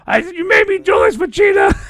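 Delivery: high, full-volume anime villain shout; Zarbon. Acted. Retelling Zarbon fighting Vegeta, in a loud hammed-up shout. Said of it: "you guys remember what Zarbon looked like".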